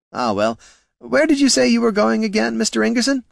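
courteous words with a hidden sneer; smooth gnome Flynn. A narrator's reading. Flynn needling the heroes, mock politeness.

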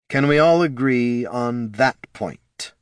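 measured menace; slow pointed question. Acted. Flynn pressing the assassins to agree, slow and menacing. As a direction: make each word a warning.

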